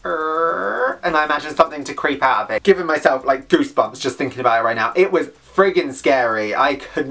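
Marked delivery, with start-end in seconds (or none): 0.1-1.0 creaky door imitation. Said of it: "It just went".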